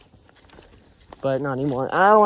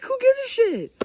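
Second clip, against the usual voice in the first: who gives a shit. Real, not acted. Mock-defiant rant, voice jumps high.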